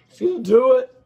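strained, hoarse, losing his voice. Real, not acted. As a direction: push through a worn-out hoarse voice. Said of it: "I'm losing my voice".

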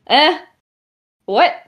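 high, sharp questioning yelp; startled reaction. Acted. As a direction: blurt it out, caught off guard. Startled player character reacts to overheard talk.

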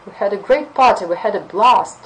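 loud, upbeat party story; excited retelling. Shown as a demonstration. Teacher playing the student gushing about a party. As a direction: sound thrilled about the party. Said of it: "some emotional reaction".

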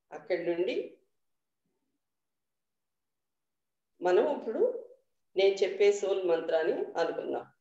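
measured meditation guidance with long pauses; guided meditation. Real, not acted. Teacher leading the group into dhyanam, guided meditation voice. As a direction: guide them unhurriedly, a little softly, phrase by phrase.

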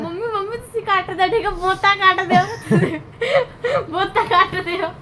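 laughing plea. Real, not acted. Child begs mum, laughing.

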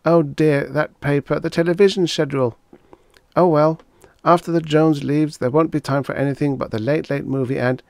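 wife scolds Henry for reading before the guests arrive; Agnes nagging. Acted. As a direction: hurry him along, exasperated. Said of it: "She glanced regretfully".

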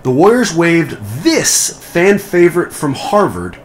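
loud, bright quiz host announcing; game show host voice. Pretend. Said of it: "my canned game show host voice".

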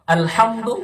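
আলহামদু with a strong throaty হা from deep inside; deep throat ha. Shown as a demonstration. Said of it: "যেখানে বড় হা সেখানে বড় হা করুন". (আলহামদু-তে গলার গভীর থেকে বড় হা)

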